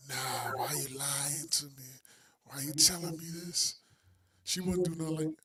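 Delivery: timid whiny guy imitation; meek, pleading boyfriend voice; weak man voice. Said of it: "your weak man voice".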